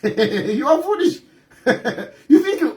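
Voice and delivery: laughing as you taunt; mocking words broken up by chuckles; amused scorn. Real, not acted. Politician's critic tells opponents they are foolish, laughing scornfully.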